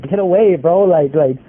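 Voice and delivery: retold yell. Yelling at stabbing brother to leave.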